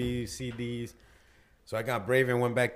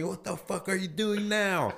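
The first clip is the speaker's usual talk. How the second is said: mock yelling mom; 5 semitones higher, 4 dB quieter, slower than usual. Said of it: "Starts yelling at me".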